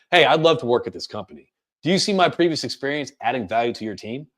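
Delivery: assertive, settled pitch with falling endings; confident, grounded job pitch; going down at sentence ends. Shown as a demonstration. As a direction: state it like an expert consultant. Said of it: "going down at the end".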